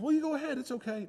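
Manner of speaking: high, gentle coaxing to a son; light high reassuring voice; coaxing dad. Retold or imitated. Father urging his hesitant son, light and high. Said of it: "I said".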